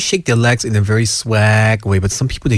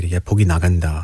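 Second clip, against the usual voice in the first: fast joking; 5 semitones lower, much faster than usual. Retold or imitated. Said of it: "Just joke about it and say".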